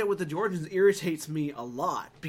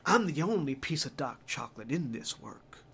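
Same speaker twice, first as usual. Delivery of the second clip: caricatured disco-guy voice; mock the game's stereotyped character. Host imitating the Fahrenheit character's lines, caricatured disco-guy voice. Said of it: "exactly what he sounds like".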